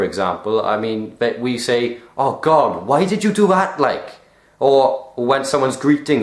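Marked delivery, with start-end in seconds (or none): 2.2-4.2 mock exasperation, rising high midway; acted reproach. Someone reacting to another's mistake, acted exasperated reproach. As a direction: exclaim at someone's mistake, pitch jumping up.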